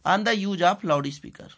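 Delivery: very slow, each word spaced for writing; slow dictation. Shown as a demonstration. Teacher dictating the letter to class, slow. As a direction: dictate it so students can write.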